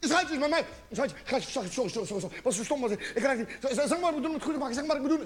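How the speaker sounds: hurried, stumbling mock apology; panicked pleading. Boyfriend phoning his girlfriend, panicked pleading. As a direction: gabble sorry in a hammed-up panic. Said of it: "Je raakt helemaal in paniek".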